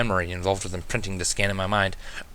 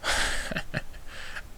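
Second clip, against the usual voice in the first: amused chuckle; 9 dB quieter than usual. A narrator's reading. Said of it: "started chuckling".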